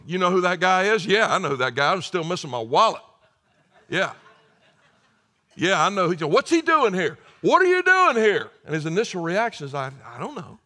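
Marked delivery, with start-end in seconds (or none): 0.1-8.5 outraged disbelief at seeing him; shocked. Acted. Victims shocked in heaven. 9.7-10.6 meek reply. Acted. Thief answers meekly.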